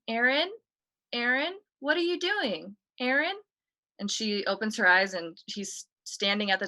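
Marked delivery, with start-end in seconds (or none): 0.1-3.4 high calling out into the dark. Retold or imitated. Boy at the stairs calling to his sister, high and puzzled. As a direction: call her name, puzzled and high.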